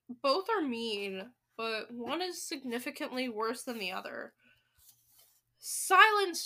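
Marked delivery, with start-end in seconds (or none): 5.6-6.4 loud, high witch's order; sudden commanding shout. A narrator's reading. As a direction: cut the uproar dead. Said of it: "shouted the Grand High Witch".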